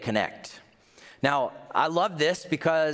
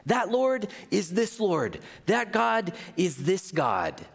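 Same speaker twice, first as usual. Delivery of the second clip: high, ringing, fired-up proclamation; bursting with excitement, slowing to land the last two lines; 11 semitones higher than usual. Retold or imitated. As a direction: shout it like the news just broke. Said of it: "no, they're fired up".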